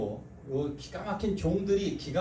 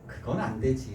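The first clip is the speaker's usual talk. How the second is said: lower, smiling gentle refusal; said with a smile; 6 semitones lower than usual. Shown as a demonstration. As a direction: smile as you say no. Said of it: "이렇게 웃으면서 얘기하셔야 돼요".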